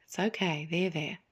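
put-on soft hushing comfort to a crying child; a mother's quiet soothing. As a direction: hush a hurt child gently. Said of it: "the mother's voice soothing".

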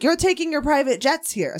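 lightly imitated foreign accent of a public speaker; a hint of mimicked foreign accent; Rutger Bregman's accent. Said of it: "Sorry, I'm doing his accent".

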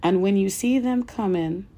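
emphatic oratory with punched phrase openings; impassioned speech reading. Acted. Reader delivering Malcolm X's speech to listeners, impassioned oratory. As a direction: read it like a rousing political speech, pausing between phrases.

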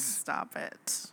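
breathless laughing stop it; laughing protest. Real, not acted. Wife laughs off husband calling her devious, laughing protest. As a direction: push back through a laugh. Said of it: "laughing protest at teasing".

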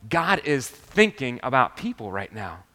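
slow, deliberate emphasis. Real, not acted. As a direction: spell the point out slowly for the listeners. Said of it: "Am I speaking too fast?".

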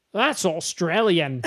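slow, put-on Australian accent. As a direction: drawl it in mock Australian. Answering a bad accent with Australian.

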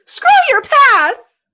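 sultry, slow and breathy; seductive whisper. Acted. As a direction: purr it out, bored and sexy. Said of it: "she kind of whispers the word pass".

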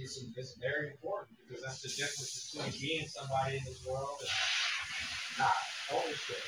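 distant, faint voice; far from mic. Real, not acted. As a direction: off mic, sounding far away. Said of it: "You sound really far away".

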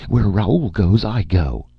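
high, insistent woman's voice; crying out. A narrator's reading. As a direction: declare it loudly and high, struggling to get free. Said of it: "D D cried".

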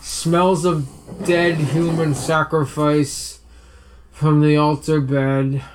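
put-on drunk voice. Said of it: "what a drunk person looks like".

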